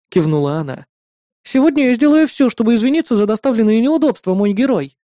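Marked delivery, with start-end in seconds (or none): 1.4-5.0 put-on high, sweet girl's voice; bright, eager to please her brother; eager little sister. Sister offering to cook whatever her brother wants, eager.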